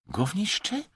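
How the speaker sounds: high, rising offended question; indignant echo. A narrator's reading. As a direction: catch the word, affronted. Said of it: "podłapał oburzony Wej". (oburzone pytanie, wysoki głos)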